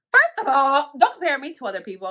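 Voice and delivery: loud, emphatic retort; indignant. Retold or imitated. Retelling her snap back at the officer, indignant. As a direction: push back hard on the opening words.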